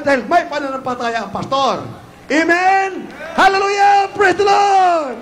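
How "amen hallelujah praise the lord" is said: high, loud rallying cry; triumphant pulpit shout; shouted praise. Real, not acted. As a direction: call the congregation to answer, stretching the last phrase. Preacher calls congregation to shout praise.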